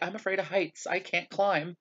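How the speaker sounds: high-pitched timid protest, lightly acted; mock fearful whine. Retold protest, afraid of heights.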